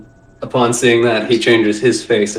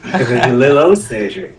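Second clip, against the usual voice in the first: slow, rough Cajun attempt; badly faked Cajun drawl, slowed down; shitty Cajun accent; 4 dB louder than usual. Game master repeating a misheard line, in a slow bad Cajun accent. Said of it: "trying to do a shitty Cajun accent".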